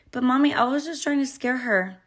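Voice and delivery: sad child imitation. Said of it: "face kinda just get sad".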